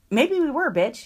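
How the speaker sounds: high sassy comeback; defiant. Pretend. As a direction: toss it back with attitude. Defiant retort to complainers.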